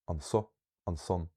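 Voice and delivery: "an so, an son" with the weight after "an"; light "an", then lean on "so" and "son"; stress on second syllable. Shown as a demonstration. Teacher pronouncing them as learned, second-syllable stress. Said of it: "secondary stress".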